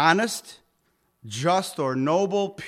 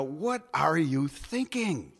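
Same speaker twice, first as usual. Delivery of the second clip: an imitated Haitian accent, slow and a touch softer; 4 dB quieter, slower than usual. Haitian pastor friend asking again, in a light Haitian accent. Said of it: "he had this funny speech and accent".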